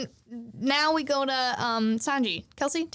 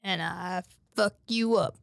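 bounty hunter; 5 semitones lower than usual. Acted. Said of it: "And he's like".

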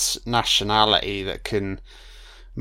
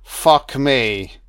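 excited outburst; 3 semitones higher, 7 dB louder than usual. Real, not acted. Reacting loudly to film scene.

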